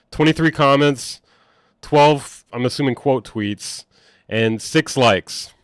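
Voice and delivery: loud, punchy count-off; too loud. Real, not acted. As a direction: call out the tallies too loudly. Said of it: "I'm too loud".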